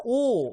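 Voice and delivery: 오 spoken slowly as one clear syllable; sounding out words. Shown as a demonstration. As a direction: dictate 오 for the group to repeat. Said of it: "따라해보세요".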